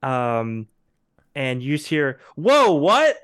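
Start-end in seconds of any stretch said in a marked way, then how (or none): 2.4-3.2 sudden high yelp of surprise; startled shout. Retold or imitated. Bystander startled by the blast, yelping in surprise. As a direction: cry out, caught off guard.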